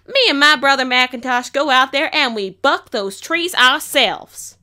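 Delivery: loud, high, impassioned tirade; passionate rant. Acted. Farmer ranting to the crowd about her real voice, loud and defiant. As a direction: let it all pour out, loud and defiant. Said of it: "proceed to rant".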